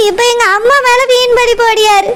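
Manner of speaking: tearful plea through sobs; crying while defending her mother. Acted. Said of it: "அழுது scene போட்டுட்டு இருக்கியோ". (அழுதுகொண்டே பேசுதல்)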